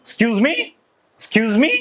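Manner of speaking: mildly indignant "excuse me" with rising end; demonstrated touch of anger; annoyed challenge. Shown as a demonstration. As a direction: challenge them, lifting the pitch on "me". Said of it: "আমাকে খুব রাগান্বিত হলো".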